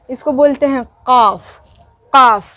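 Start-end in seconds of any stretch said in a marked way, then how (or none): 2.1-2.4 KAAF articulated from the throat, "काफ"; sonido de garganta. Shown as a demonstration. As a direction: say "काफ" with the K made deep in the throat. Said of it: "गला के साथ बोलना है".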